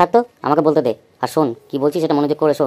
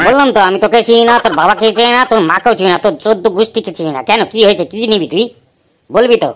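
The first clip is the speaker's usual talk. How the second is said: put-on louder, exasperated uncle telling the kids off; irritated shopkeeper; 3 dB louder than usual. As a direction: brush off the pestering brats, fed up. Annoyed shopkeeper snaps at the kids.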